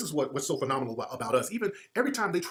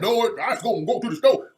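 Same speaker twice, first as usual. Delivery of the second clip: imitating a backwoods Southern speaker, a bit higher and louder; mock Southern drawl; 5 semitones higher, 5 dB louder than usual. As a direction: lay on a thick hick Southern accent as a joke. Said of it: "That's how a lot of them were talking".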